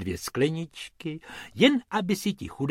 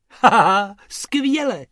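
laughing; 8 semitones higher, 9 dB louder, slower than usual. Acted. Narrator laughs with delight.

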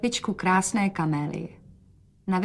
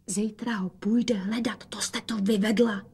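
whisper; 4 dB quieter than usual. A narrator's reading. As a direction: whisper a reproach. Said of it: "dodala šeptem". (šeptem, pomalu)

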